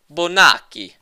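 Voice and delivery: loud, high, theatrical Bonacci; exaggerated name call. Real, not acted. Reading the level author's name, loud theatrical shout. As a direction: belt out Bonacci like an opera singer.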